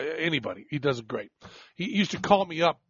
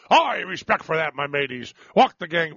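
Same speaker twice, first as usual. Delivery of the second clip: half-hearted pirate hail, punched at the start; badly faked pirate voice; terrible pirate; 4 dB louder than usual. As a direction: attempt a pirate and fumble it. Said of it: "I'm terrible".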